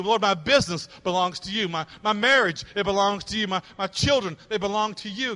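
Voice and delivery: urgent preacher's surrender prayer; impassioned prayer. Acted. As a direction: plead to God in an insistent, rolling list.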